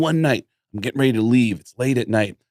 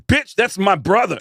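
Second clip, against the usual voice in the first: deadpan retort; 9 semitones higher than usual. Retold or imitated. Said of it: "And I'll be like".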